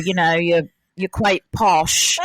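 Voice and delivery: lightly imitated posh British accent. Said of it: "I just wanna talk like you".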